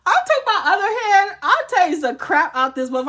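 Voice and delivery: loud, high, worked-up retelling; loud and high, all fired up; heated outburst. Retold or imitated. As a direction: raise your voice as the fight peaks. Heated retelling of fighting back.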